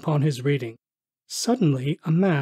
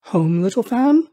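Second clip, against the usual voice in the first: put-on young boy; 6 semitones higher, 5 dB louder than usual. A narrator's reading. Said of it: "returned the boy".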